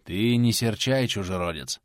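conciliatory. Acted. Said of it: "примирительно отвечал старец".

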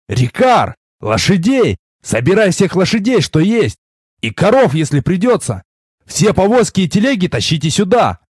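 raspy, worn-out hoarse command. Acted. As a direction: bark the orders through a rasping throat. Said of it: "сиплым голосом приказал я".

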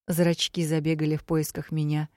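plain reading voice

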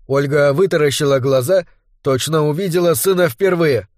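usual speaking voice

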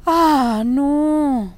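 high, drawn-out, loud lament of sympathy; pitying, lifted voice with long vowels; compassionate. A narrator's reading. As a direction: draw out a sorrowful "oh no" in compassion. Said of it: "murmuró mamá compasiva".

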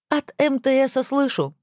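slow, high teasing retort; Александра. A narrator's reading. Alexandra's retort. (медленно и высоко, в шутку огрызаясь)

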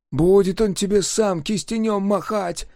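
hoarse covert wheeze; whispering behind a hand. A narrator's reading. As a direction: hiss it behind your palm. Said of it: "просипел он, таимничая".

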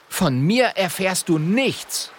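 high, slow, defiant apprentice; a brave little apprentice refusing; Friederich defiant. A narrator's reading. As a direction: dig in your heels. Boy defies wizard.

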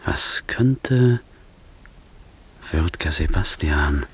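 voiceless hushed whisper. Acted. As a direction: breathe it out secretly. Antonio hints at a secret. (geflüstert)

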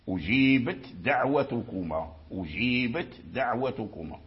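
أجيبت ending in a clear voiceless ت before دعوتكما; clear ta, right. Shown as a demonstration. Teacher giving the correct clear reading of أجيبت دعوتكما. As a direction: sound the ت of أجيبت, then a light د. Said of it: "ثم تنطق بالدال مخفف".

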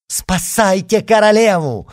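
loud, high cry for help; alarmed cry. A narrator's reading. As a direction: cry out urgently. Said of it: "воскликнул кардинал".

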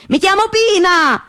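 high, slow, blurted exasperated cry; exasperated outburst. Retold or imitated. Girl giving in to the clapping pest, high exasperated outburst. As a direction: give in and blurt your name. She finally blurts her name.

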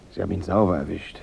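soft whispered threat; menacing whisper. Acted. Gunman whispering a threat to the detective at gunpoint, cold whisper. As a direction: breathe it close to his ear.

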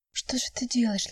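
soft unvoiced whisper of Что же ты делаешь. A narrator's reading. Girlfriend whispering to her hurt boyfriend, unvoiced. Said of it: "шептала она".

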